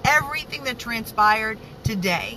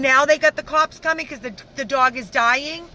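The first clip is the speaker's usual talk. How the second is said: angry rant; 3 semitones higher than usual. Real, not acted. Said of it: "I'm so angry".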